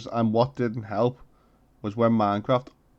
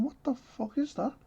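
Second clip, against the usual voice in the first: high, scared what-was-that; startled; 13 semitones higher, 9 dB quieter than usual. Retold or imitated. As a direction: jump at a strange noise. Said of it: "that noise and going".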